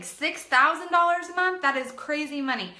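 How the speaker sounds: high, loud stunned repeat; amazed. Real, not acted. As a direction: still floored by the amount. Repeating the amount in awe.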